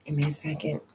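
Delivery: real emotion breaking through, spoken in a hushed whisper; choked up. Real, not acted. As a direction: pause and whisper through rising tears. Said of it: "I almost started to cry".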